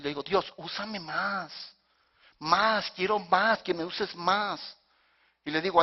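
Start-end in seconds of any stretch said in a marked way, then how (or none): 0.2-4.8 slow, drawn-out entreaty; praying plea. Shown as a demonstration. Pastor showing his prayer to God, slow pleading. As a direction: stretch each "más" in earnest petition. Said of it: "Esa es mi oración".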